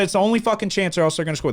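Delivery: high-pitched, insistent fan rant; worked-up, urgent prediction; retold freaking out. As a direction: re-enact a frantic warning to friends. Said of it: "I'm fucking freaking out".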